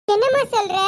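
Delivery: can't believe what mother just said; shocked disbelief. Acted. Daughter shocked by mother's decision.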